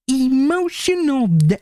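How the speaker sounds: high, loud, slow Kermit squawk; hammed-up Kermit shout. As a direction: yell it like Kermit the Frog. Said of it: "my Kermit voice pop up".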